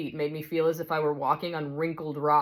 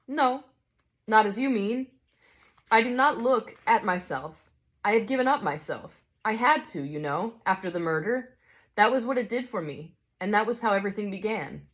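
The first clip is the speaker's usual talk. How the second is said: a touch higher, calm and kindly; gentle bright spirit; 5 semitones higher than usual. Acted. Bright spirit calmly answers the big ghost, kindly.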